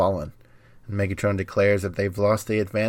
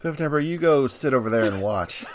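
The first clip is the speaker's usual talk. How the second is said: laughing; 5 semitones higher than usual. Acted. Co-host continues bit, laughing.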